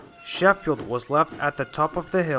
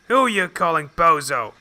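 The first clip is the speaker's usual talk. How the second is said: indignant retort; 4 semitones higher, 5 dB louder than usual. Acted. Engine retorts defensively.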